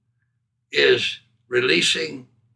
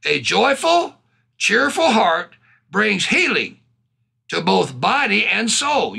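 slow, raised verse reading; preached scripture reading; 4 semitones higher than usual. Acted. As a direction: draw out each phrase with emphasis. Repeats the verse.

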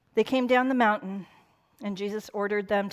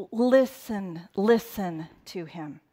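gentle invitation; slower than usual. Retold or imitated. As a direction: coax them kindly to listen. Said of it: "He is saying".

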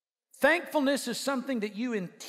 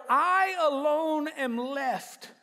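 self-pity; much slower than usual. Acted. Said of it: "self-piteously says".

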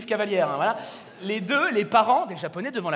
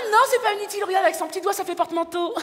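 proud parent; 7 semitones higher, faster than usual. Acted. Voicing defensive proud parent.

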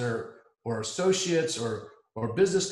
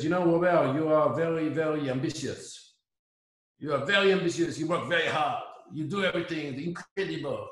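put-on heavy French accent. French guy praising Robert, in a heavy French accent. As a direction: play the French guy lecturing him, in a thick French accent. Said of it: "very heavy French accent".

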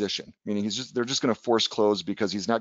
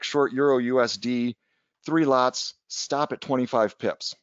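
mild raised voice, slow and deliberate; retold call-out; 2 semitones higher, slower than usual. Trader calls orders out of his office, mild retold yell. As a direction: call out a trade order without really yelling. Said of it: "so I yelled out of my office".

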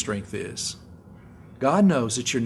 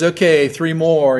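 spotter shouting; 5 semitones higher, 9 dB louder, slower than usual. Retold or imitated. Spotter barking at lifter.

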